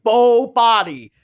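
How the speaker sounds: Creed impression. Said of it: "he's like".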